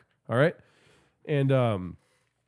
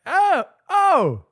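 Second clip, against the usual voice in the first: very high, louder swooning coo; falsetto daddy coo; 13 semitones higher, 5 dB louder, much slower than usual. Retold or imitated. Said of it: "I started calling him daddy".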